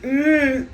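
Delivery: imitated kid's grunt. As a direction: grunt like the little kid. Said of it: "he's like".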